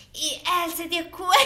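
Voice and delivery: half-hearted movie-dub narrator; dubbing voice. Acted. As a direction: try a dubbed-film voice and crack up. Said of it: "no puedo hacer esa voz".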